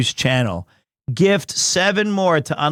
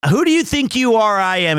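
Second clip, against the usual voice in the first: quoting catchphrase; 3 semitones higher than usual. Retold or imitated. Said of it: "is my quote".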